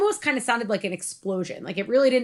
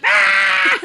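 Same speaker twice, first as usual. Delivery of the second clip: high loud laughing shriek; retold scream; 12 semitones higher, 12 dB louder than usual. The whole household woke at once, loud shriek. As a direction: shriek all together. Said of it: "we all were just like".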